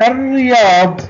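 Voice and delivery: الرياض with silent lam and doubled r. Shown as a demonstration. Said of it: "ولا تنطق، والحرف الذي بعدها يكون مشددا". (نطق «الرياض» بلام صامتة وراء مشددة)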